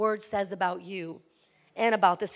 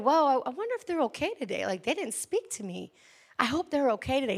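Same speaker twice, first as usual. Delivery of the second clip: caring version; 4 dB quieter than usual. Retold or imitated. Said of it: "See the difference?".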